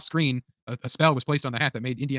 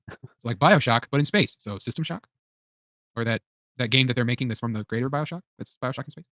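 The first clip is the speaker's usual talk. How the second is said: Az impression. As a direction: put it in your nose like Az. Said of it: "Great Az impression".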